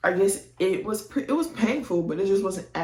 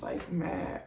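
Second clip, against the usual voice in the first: whispered; 7 dB quieter than usual. Real, not acted. Whispered aside about Justin.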